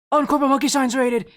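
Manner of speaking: a happy exclamation at the new raid; pleased surprise. Real, not acted. Streamer notices Corporal Monkey Shines raiding, pleased surprise.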